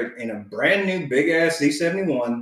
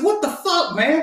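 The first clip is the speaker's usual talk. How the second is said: much higher pitched mock yell; retold yell; 12 semitones higher than usual. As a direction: yell it up high at the tailgater. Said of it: "yelling in my rearview mirror".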